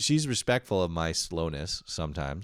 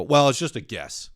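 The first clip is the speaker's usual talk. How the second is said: higher, louder bashful brag; mock modesty; 6 semitones higher, 8 dB louder than usual. Boyfriend answering girlfriend's praise, mock modest. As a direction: play humble while pleased with yourself.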